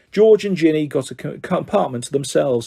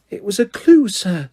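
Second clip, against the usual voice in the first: Dobby stating the obvious; 5 semitones higher than usual. A narrator's reading. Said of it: "as though this was obvious".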